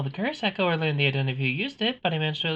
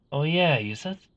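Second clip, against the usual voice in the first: noir detective. Acted. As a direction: still stuck in the gumshoe voice. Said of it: "I'm still in the detective voice".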